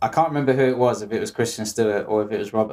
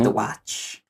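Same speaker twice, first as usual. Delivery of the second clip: softer, put-on American "watch" with an open flat "a"; Christopher Walken impression; 5 dB quieter than usual. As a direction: say "watch" like "watch" rhyming with "catch", softly. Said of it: "Christopher Walken".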